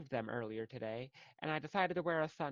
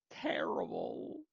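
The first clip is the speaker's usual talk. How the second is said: whispered word; 10 semitones lower, slower than usual. Real, not acted. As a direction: drop to a low whisper on terrible. Whispers while judging her face.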